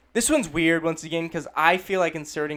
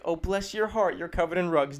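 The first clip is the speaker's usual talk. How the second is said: an insult dressed up as kindness; passive-aggressive mock pity; 3 semitones higher than usual. Someone to a poor newcomer in a shop, passive-aggressive pity. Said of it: "They do not mean that in a nice way".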